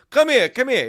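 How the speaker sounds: high, loud mocking call; challenging dog owner. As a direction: mimic an owner daring you over.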